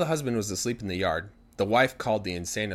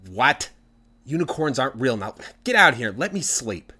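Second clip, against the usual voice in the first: louder, grumpy just-woken protest; annoyed wife; 3 semitones higher, 5 dB louder than usual. Acted. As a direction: wave him off so you can sleep. Woken wife snaps at husband.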